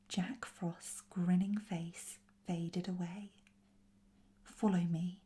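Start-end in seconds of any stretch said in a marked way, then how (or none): 4.4-5.2 firm, louder command; ordering. A narrator's reading. Bertram tells the others to follow him, ordering. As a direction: give a brisk, mild order. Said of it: "ordered Bertram".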